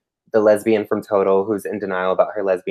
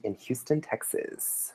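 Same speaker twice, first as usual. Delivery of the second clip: mock British accent; 3 semitones higher, 15 dB quieter than usual. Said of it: "That's my British accent".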